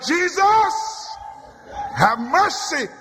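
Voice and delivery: crying out in prayer; cried out. Acted. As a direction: call his name upward. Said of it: "I've cried out".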